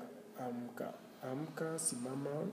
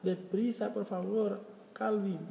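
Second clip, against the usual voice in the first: urging a friend; 6 semitones higher than usual. Retold or imitated.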